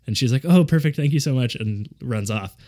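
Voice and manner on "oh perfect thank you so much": higher-pitched mock gushing thanks; lightly hammed-up gratitude; grateful stranger. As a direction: imitate a delighted passer-by, pitched up. Stranger gratefully thanks him for directions.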